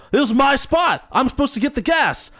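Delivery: high, mock-indignant voice for the other driver; mock angry older man. Mimicking the older driver claiming the pump, mock indignant and high. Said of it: "he was like".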